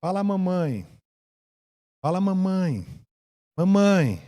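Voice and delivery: soft, lightly voiced mum teaching a baby; a hint of doting mother; coaxing mother. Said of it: "e a mamãe".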